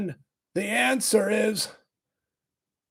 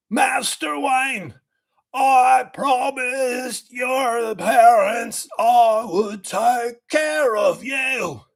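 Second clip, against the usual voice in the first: Michael Caine impression; 3 semitones higher, slower than usual. A loyal butler pleads with young Master Wayne, in a slow hammed-up Michael Caine voice. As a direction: ham up a pleading old butler, drawn out. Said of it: "I'll do a Michael Caine impression".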